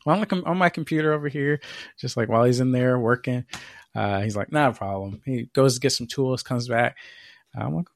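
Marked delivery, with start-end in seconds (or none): 4.5-5.2 low, understated "not a problem"; lightly voiced man of few words; imitated repairman. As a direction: play the unbothered repairman, pitched down. Quoting the repairman's catchphrase again.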